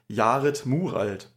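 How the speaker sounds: Jared Muralt said slowly as a German name, "Yah-ret Moo-ralt"; German pronunciation. Shown as a demonstration. Podcaster showing co-host the artist's name, Jared Muralt pronounced as German. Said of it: "wenn es wirklich deutsch ausgesprochen wird".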